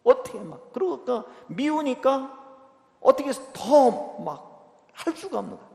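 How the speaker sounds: ordinary talk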